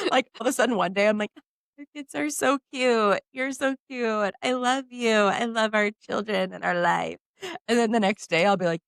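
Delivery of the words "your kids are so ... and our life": doting sweetness. Retold or imitated. Sweet loving mood quoted.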